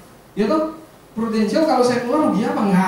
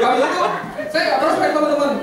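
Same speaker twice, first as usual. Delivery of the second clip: laughing; 6 semitones higher than usual. Real, not acted. Laughing at his own misfortune.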